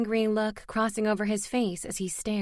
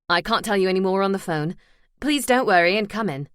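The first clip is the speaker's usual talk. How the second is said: formal caller; 6 dB louder, faster than usual. Acted. Hospital man on phone.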